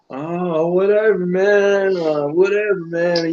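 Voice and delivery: lightly voiced drawn-out brush-off; imitating Crooks. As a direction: draw it out like a dismissive buddy. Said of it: "Crooks is just like, "You know how he is".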